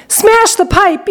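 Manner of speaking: high, drawn-out demand; yelling. A narrator's reading. Mother demands her stuck son's rescue, yelling. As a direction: order it in a high, slow cry. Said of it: "yelled Missus Gloop".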